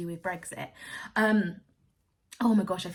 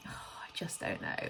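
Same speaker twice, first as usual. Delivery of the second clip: sighs then whispers it, slowly; a tired whispered give-up; whispered resignation after a sigh; 9 dB quieter than usual. Real, not acted.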